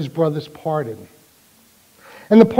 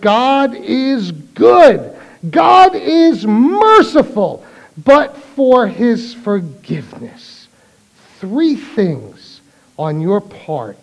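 slow, weighty priestly warning; slow solemn priest; slower than usual. Acted. Priest warning the dying dictator, slow and solemn. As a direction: spell out each word slowly like a grave priest.

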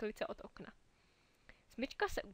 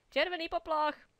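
loud, higher alarm call; alarmed shout; 6 semitones higher, 8 dB louder than usual. A narrator's reading. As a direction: raise the alarm, sharp and loud. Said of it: "zvolal náhle jeden vojáček". (vojáček varuje hračky hlasitým, vyšším výkřikem)

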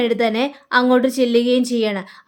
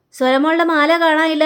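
raised, higher fussy cry; making a fuss; 4 semitones higher than usual. Acted. Wife complaining to husband about the necklace, raised fussy voice. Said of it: "അവിടെ കിടന്ന് ഒച്ചപ്പാടുണ്ടാക്കണം".

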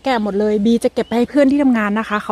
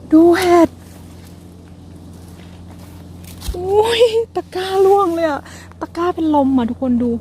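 much higher, thrilled then flustered; excited squeal; 9 semitones higher than usual. Real, not acted. Showing viewers mushrooms as her basket falls, excited high. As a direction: squeal as the basket tips over.

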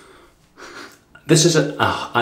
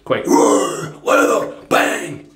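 hammed-up exclamation; 10 semitones higher, much slower than usual. Hamming up the scent strength.

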